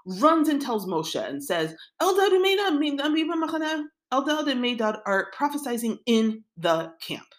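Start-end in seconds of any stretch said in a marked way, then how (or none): 2.0-7.3 breathless, high-pitched rush of alarm; blurting out the news in a panic; loud, high and urgent. Retold or imitated. Assistant runs to tell Moshe urgently.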